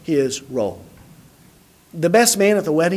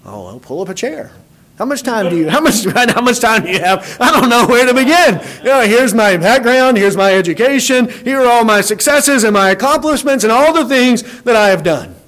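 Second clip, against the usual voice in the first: boastful preacher; 3 semitones higher, 4 dB louder than usual. Retold or imitated. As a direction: ham up a preacher eager to brag about himself. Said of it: "Most preachers would love nothing more".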